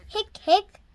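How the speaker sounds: two little squeaky hiccups; hiccup sounds. A narrator's reading. Reading a children's story, voicing the hiccups playfully. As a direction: hic it out like a child. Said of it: "Sophia hiccuped twice".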